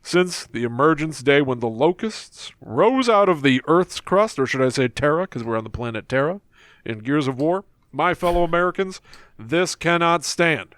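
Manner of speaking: Obama impression. Shown as a demonstration. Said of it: "Let's go to Barack Obama".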